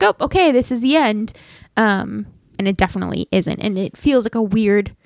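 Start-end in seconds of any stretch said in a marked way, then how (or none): 0.0-1.3 sudden high "oh, okay"; a startled, pitched-up realization; surprised realization. Retold or imitated. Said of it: "but I was just like".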